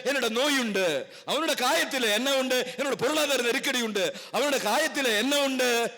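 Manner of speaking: insistent, rhythmic preacher's refrain; emphatic preaching. Real, not acted. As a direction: drive home each repeated phrase to the congregation. (தாளத்தோடு வலியுறுத்தும் பிரசங்கம்)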